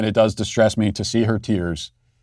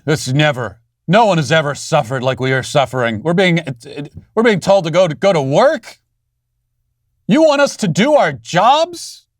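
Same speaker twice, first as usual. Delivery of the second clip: mocking whiny teacher; 4 semitones higher than usual. Host mocks teachers' complaints.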